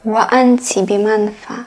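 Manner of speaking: love poem recited in formal Arabic; poetry recitation. Acted. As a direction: recite it as poetry, in measured swelling phrases.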